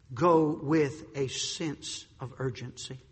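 slow and quiet, each word weighed; slow, soft. Shown as a demonstration. Preacher quietly pressing the point. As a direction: say it low and slow. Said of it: "repeated with contrast".

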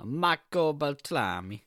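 hammed-up Italian name, slow and lilting; Italian accent, drawn out with relish; mock Italian accent. Shown as a demonstration. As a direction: roll it out in a playful Italian accent. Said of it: "I think it's Italian again".

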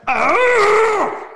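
loud, high-pitched scream; nightmare yell. Retold or imitated. Waking from a nightmare in bed, screaming at the top of the lungs. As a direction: yell out as if jolting awake screaming. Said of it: "yelling at the top of my lungs".

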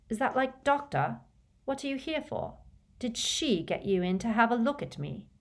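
a hint of a distrustful child; wary boy. Orphan boy questioning the stranger, warily. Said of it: "who looked wary".

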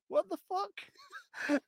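high, very slow drawn-out disbelief; baffled. Retold or imitated. Connor wrongly accused, slow stunned disbelief. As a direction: stretch out the confusion.

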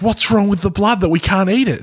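high-pitched incredulous quoting; mock bafflement. Retelling QAnon confusion about blood, mock bafflement. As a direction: imitate baffled people and an exasperated answer.

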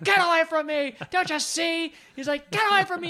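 high, loud hammed-up shouting; mock yell. Podcaster imitating Kurt Russell shoving Delany away, hammed-up yell. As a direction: overplay Wyatt pushing her away.

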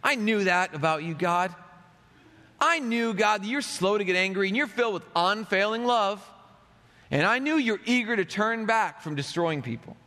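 mildly resentful, pointed complaint; understated reproach; accusing tone. Retold or imitated. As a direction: throw it back at God. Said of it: "I'm reading it with the tone".

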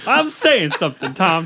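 Tom upset. Retold or imitated. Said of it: "Tom is really upset".

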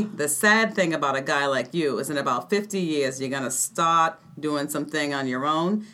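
lightly voiced Boston accent, mocking; a hint of a Boston tough putting down a grad student. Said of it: "That was my Boston accent".

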